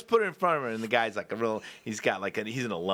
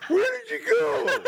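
imitating Johnny; slower than usual. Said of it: "Johnny was sitting at the bar going".

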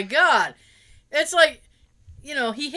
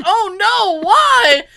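mock concern; 8 semitones higher, 10 dB louder, much slower than usual. Quoting Lucas's concern.

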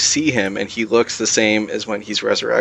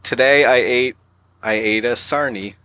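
carefully attempted British accent; badly faked British accent; mock British accent. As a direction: show off your pretend British in a full sentence. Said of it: "Say a complete sentence".

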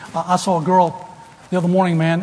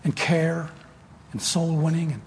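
prayer. Acted. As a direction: pray it unhurried over the congregation. Closing prayer.

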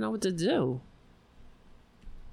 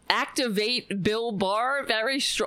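slightly raised mock echo of the phrase; mocking repeat; 3 semitones higher than usual. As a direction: repeat it back in disbelief. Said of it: "what is he, a fucking fembot".

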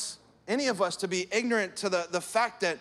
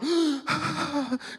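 mock gasp; 7 semitones higher than usual. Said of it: "show up to work... going".

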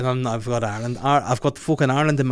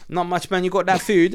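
higher, mock London roadman accent; Top Boy London slang; 6 semitones higher than usual. Friend replying on the phone, mock London street accent. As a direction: imitate a London street dealer. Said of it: "it was Top Boy we were watching".

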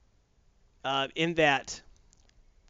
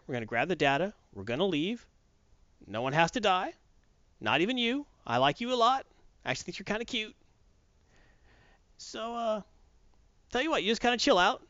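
sly mercenary; 5 semitones higher than usual. Retold or imitated. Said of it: "she's like".

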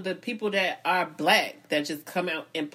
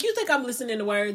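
laughing; 3 semitones higher, faster than usual. Retold or imitated. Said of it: "I'm like".

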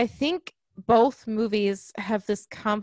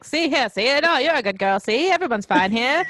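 put-on mid-Atlantic accent; 2 semitones higher than usual. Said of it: "fast-talking with a mid-Atlantic accent".

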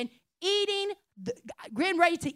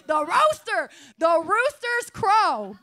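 The Rooster's Crow slowed right down through laughter; laughing; 4 semitones higher, 4 dB louder, slower than usual. Real, not acted. Preacher cracking up at own sermon title, laughing slow. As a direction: giggle out the title, slowly.

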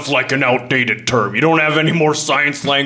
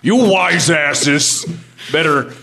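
slow, high, angry; 4 semitones higher than usual. Acted. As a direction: drag it out in anger. Angry customer.

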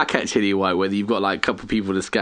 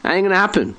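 mock firm refusal; 6 semitones higher than usual. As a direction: turn them down with a grin. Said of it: "we've got the power to say".

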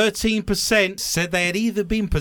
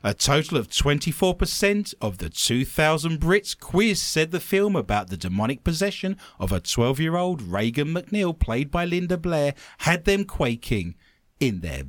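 news story read; 2 semitones lower than usual. Acted. Host reads scariest films story to co-host, news read.

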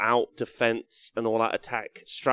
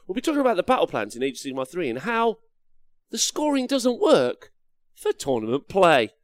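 YouTube intro voice; 5 semitones higher than usual. Shown as a demonstration. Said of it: "that was my YouTube intro".

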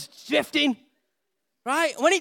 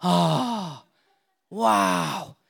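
put-on girls amazed; 7 semitones lower than usual. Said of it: "And they're like".

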